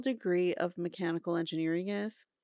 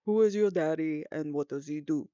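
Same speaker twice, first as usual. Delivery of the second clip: put-on lightly done, rough Austrian accent in a low voice; a quick, admittedly bad Austrian Arnold accent; Arnold Schwarzenegger impression; 3 semitones lower, 3 dB louder than usual. Host quoting Kindergarten Cop in a bad Austrian accent. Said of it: "that was probably a really terrible accent".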